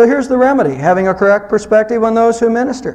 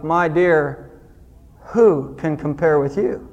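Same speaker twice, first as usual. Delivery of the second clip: tender romantic line; 6 semitones lower, 4 dB quieter, slower than usual. Shown as a demonstration. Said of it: "it's very romantic and touching".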